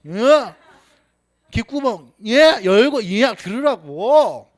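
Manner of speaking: loud, exasperated telling-off; irritated friend yelling at him to open his ears; angry scolding. Retold or imitated. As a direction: bark it at a friend who won't listen.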